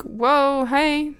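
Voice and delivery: a retold "didn't expect you" greeting; surprised greeting. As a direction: act out bumping into someone unexpectedly. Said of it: "I didn't expect to see him".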